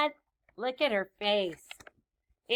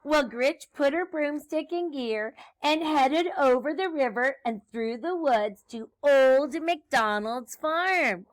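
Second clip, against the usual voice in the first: lively, slightly raised read-aloud; story read to children; 3 semitones higher, 5 dB louder than usual. A narrator's reading. Teacher reads Grinch's broomstick trip to children, lively storytelling. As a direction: narrate a picture book with bounce.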